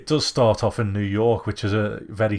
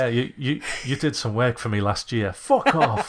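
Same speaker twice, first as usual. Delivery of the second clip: mock rude brush-off; 4 semitones higher than usual. Joining the retold scene as the swearing woman, laughing mock anger. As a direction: ham up the rude reply.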